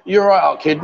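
lightly imitated Brummie instead of Scouse; Brummie accent. Host retrying the Liverpool greeting, mistaken Brummie accent. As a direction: try Liverpool, slip into a Birmingham accent. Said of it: "No, that's Brummie, isn't it?".

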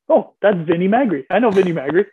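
slightly lifted, mock-triumphant recognition; light up at finally knowing one name; retold excited recognition. Retold relief at a known coach.

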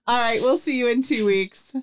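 talking through a yawn; yawning sigh. Real, not acted. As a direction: say it mid-yawn. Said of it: "Sorry, I'm yawning".

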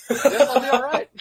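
high, whimpery put-on voice; mock self-soothing. Recruit left alone by his buddy, mock self-soothing.

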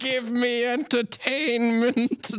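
drawn-out, high demand; slow demanding voice. Pretend. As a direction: stretch it out like a spoiled ruler. Answering the console's question.

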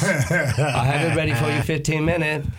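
slow, lightly mocked Chinese accent; Chinese-accent restaurant impression; imitated Chinese accent. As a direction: take the order as a takeout lady, put-on Chinese accent. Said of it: "there's this Chinese place".

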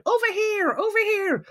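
high calling out over the crowd; imitating a crowd of photographers yelling; retold photographers' shout. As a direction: shout to get a star's attention. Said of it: "and they all shout".

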